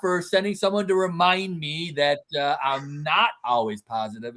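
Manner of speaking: high, sarcastic thanks; mock grateful. Dad answering his teasing son, high and sarcastic. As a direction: thank God with a wry sting. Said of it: "I'm like".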